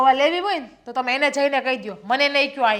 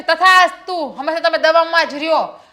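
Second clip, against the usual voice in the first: mock god; 5 dB louder than usual. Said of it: "ભગવાન એમ જ કે".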